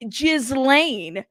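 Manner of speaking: Ghislaine as a bold "JIZ-lain"; said with chest. Shown as a demonstration. Host telling viewers to say Ghislaine boldly, JIZ-lain. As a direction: proudly sound the Z in Ghislaine, drawn out. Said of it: "say it with your chest".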